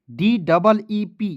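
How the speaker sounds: letters spaced out slowly; slow spelling. Shown as a demonstration. Teacher repeating the spelling slowly for students. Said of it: "teacher spells slowly for class".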